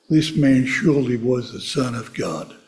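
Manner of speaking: slow mock Texas drawl. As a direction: imitate a cowboy actor's slow Texan drawl. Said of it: "in his Texas drawl".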